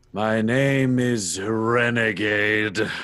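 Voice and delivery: very slow, drawn-out hero introduction; sighing, reluctant hero. Acted. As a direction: give in and announce it slowly. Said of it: "takes a deep breath and sighs and goes".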